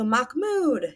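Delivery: half-hearted yell to summon someone; mild mock yell. Teacher quotes a father yelling at Mahmoud, a mild mock yell. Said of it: "he's yelling".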